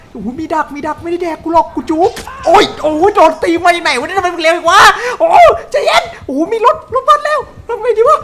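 loud frantic shouting with laughter; panicked yelling. Real, not acted. Player yelling in panic as the killer chases him. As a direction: yell in half-laughing panic while chased.

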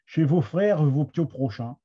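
reading verse with a Picard accent; Somme Picard accent. Shown as a demonstration. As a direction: give the line its Somme Picard vowels. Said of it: "avec, euh, mon accent de la Somme". (accent picard de la Somme)

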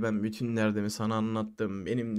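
low, subdued imitation of a wounded friend; playing emotional. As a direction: retell his plea with mild self-pity. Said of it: "falan duygusal oynuyor". (duygu sömürüsü yapar gibi, alçak sesle)

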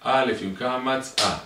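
slow, loud, high sing-song chant; drawn-out alphabet recitation; repetitive drilling. Acted. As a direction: repeat the letter lesson like a teacher to a child. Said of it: "הלאה, אתה חוזר".

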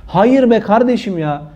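Hayır be kardeşim ya, full voice, slow and firm. Shown as a demonstration. Preacher firmly refuses the phrase, slow and emphatic. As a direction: stamp each word of Hayır be kardeşim ya. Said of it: "repeated louder".

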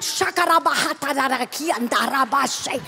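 rapid flowing tongues, lightly voiced; speaking in tongues. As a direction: let the syllables pour out in tongues.

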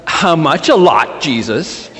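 playing along with a mock eye-roll. Disciples play along with Jesus's joke, eye-rolling. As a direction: set up the joke, dropping on the name. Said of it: "they roll their eyes".

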